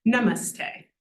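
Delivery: "namaste" with short "na", weightier "mas" and "te"; long later syllables. Shown as a demonstration. Teacher showing syllable weight, "namaste" with short "na". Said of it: "na is the only short one".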